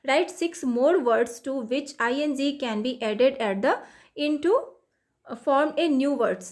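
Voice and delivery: each English word read out slowly and evenly; slow textbook reading. Acted. Teacher reading the worksheet instruction to students, slow and deliberate. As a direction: read the task aloud slowly for the class.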